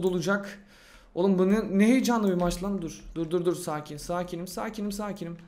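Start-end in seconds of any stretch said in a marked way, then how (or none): 2.8-5.4 softly repeated, trying to stay calm; hushed self-soothing mantra. Real, not acted. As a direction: talk yourself down quietly. Calming himself down mid-match.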